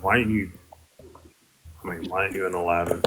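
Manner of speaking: quiet, measured and calm, a bit quick. Real, not acted. Asking her father calmly for TikTok. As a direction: keep it calm and controlled on purpose. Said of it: "I just say that as calmly as I can".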